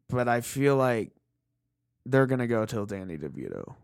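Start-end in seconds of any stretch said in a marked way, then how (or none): 2.1-3.7 hushed whisper. Real, not acted. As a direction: say it so he won't hear. Morbid aside, he's staring.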